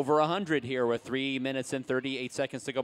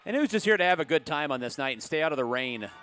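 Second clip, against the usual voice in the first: calling to the crowd; 3 semitones higher, 4 dB louder than usual. Real, not acted. Hyping the crowd at halftime.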